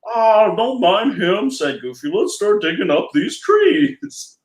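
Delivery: a hint of goofy cheer; lightly voiced Goofy.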